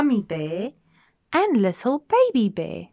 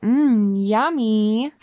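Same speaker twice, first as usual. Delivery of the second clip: yummy; 7 dB louder, much slower than usual. Acted. Child enjoys food.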